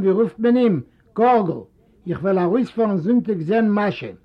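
lightly voiced uncle; resigned uncle. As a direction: give up then call Sam. Moses gives up and calls Sam.

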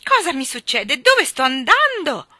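loud, high alarmed shout; alarmed yell. Acted. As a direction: yell it in panic as you are carried off. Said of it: "urlò la signorina Andrew".

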